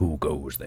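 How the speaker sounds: gravelly put-on voice. Asking who goes there at a door as a joke: gravelly voice. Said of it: "you got that gravelly voice now".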